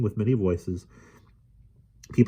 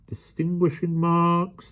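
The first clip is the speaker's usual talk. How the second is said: gabbling; 11 semitones higher, slower than usual. A narrator's reading. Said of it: "the professor gabbled".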